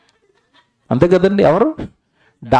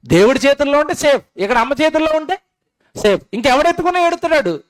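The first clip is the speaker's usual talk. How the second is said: put-on childlike relief; 10 semitones higher than usual. Baby voice feeling safe.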